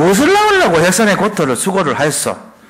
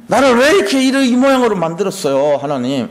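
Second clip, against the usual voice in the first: mock wailing complaint; 5 semitones higher than usual. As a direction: cry out to God as if wronged. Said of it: "이거 하는 거예요". (하나님께 높고 크게 떼쓰듯 따지기)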